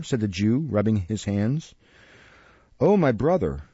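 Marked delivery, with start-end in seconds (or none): 2.8-3.6 mock tearful. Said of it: "bursting into tears".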